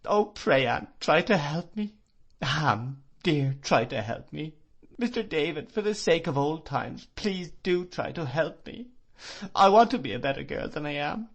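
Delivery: high, desperate sobbing supplication; anguished pleading. Acted. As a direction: beg everyone for help in grief. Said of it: "this supplication ... agony of grief".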